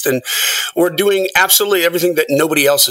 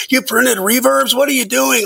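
mild mock yell at the band; imitating an angry engineer, raised pitch; 10 semitones higher than usual. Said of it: "he's just yelling at us like".

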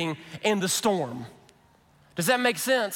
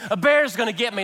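mock panic; faster than usual.

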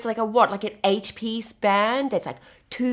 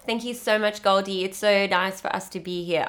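bad South African accent. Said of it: "I'm doing a really bad accent".

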